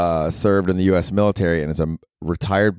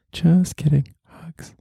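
bright take-back; 10 semitones higher, much slower than usual. Pretend. Undoing the mock insult.

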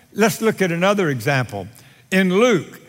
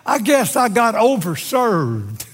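pitched-up, minimizing admission; man excusing himself; 5 semitones higher than usual. Acted. Man looks up to God about drinking, excusing himself. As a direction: shrug off the fault in a higher voice. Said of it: "Man looks up and says".

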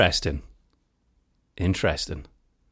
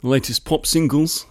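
slow, higher cheesy DJ voice; a hint of an old DJ man; 7 semitones higher than usual. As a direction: lightly play an old radio DJ. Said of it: "trying not to sound like a ... old DJ man".

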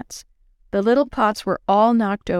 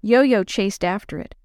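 plain reading voice

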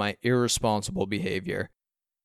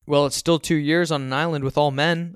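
louder, higher retort; heated comeback in a raised voice; shooting back; 5 semitones higher, 6 dB louder than usual. A narrator's reading. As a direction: argue straight back at dad. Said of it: "I shoot back".

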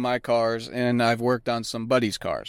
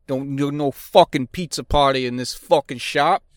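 Boston shop talk; 3 semitones higher than usual. Retold or imitated. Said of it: "That sounds more like Boston".

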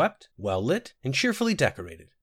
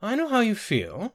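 fond sympathy; 12 semitones higher than usual. A narrator's reading. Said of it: "patting Winster's hand fondly".

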